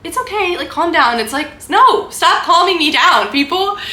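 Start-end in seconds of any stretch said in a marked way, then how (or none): 0.0-1.2 high, sing-song mock "calm down"; mock soothing. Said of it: "They're like". 1.7-3.8 higher, louder and slower, fed up; exasperated retort. Acted. She pushes back at soothing people.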